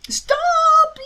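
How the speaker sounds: high, loud yell. A narrator's reading. Hiccup yells as feathers fly, loud. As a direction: shout it to stop the dragon. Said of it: "yelled Hiccup".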